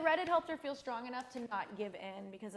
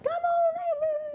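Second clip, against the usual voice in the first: welcoming call; 7 dB louder, much slower than usual. Retold or imitated. Imagines inviting delivery driver in.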